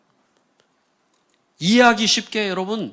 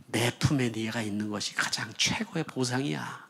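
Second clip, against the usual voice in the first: put-on softer and lower, tender as a parent holding a child; whisper-close comfort, the embrace itself is the gift; tender divine voice; 5 semitones lower, 8 dB quieter than usual. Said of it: "말씀을 하고 있는 거예요".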